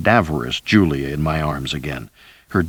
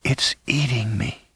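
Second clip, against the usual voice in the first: soft, breathy, higher dying voice; weak frightened whisper; faint whisper; 4 semitones higher, 6 dB quieter than usual. A narrator's reading. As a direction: push the words out on thin air. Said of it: "Her voice was just a whisper".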